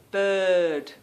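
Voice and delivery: "bird" with the vowel dragged out, no R; dragged-out mimicry. Husband mimicking her, "bird" dragged out without R. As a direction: stretch "bird" as mocking mimicry. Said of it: "he really drags it out".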